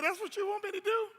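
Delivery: monkey scoffing that the task is nothing; amused monkey. Acted. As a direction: ask it like a monkey who can't believe it's that easy.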